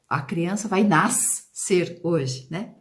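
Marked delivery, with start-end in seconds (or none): 0.8-2.0 NASCER pulled apart slowly as nas-cer; split between S and C. Shown as a demonstration. Teacher mimicking a child's reading, over-split syllables. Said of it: "Eu não falo nascer".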